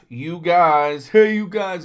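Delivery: lightly hammed-up film catchphrase; Goonies catchphrase. Reviewer quoting a bottle's film line, playfully calling out. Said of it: "must be something off of Goonies".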